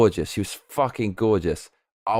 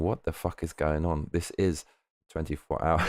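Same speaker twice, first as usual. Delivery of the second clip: put-on very old man; 6 semitones lower, 8 dB quieter than usual. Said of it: "the old man voice".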